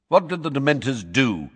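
Mrs Figg asking. A narrator's reading. Mrs Figg voiced in story.

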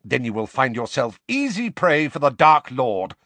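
savage. A narrator's reading. Snape warns Harry about the Dark Lord, savagely. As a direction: snarl it as a harsh warning. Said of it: "said Snape savagely".

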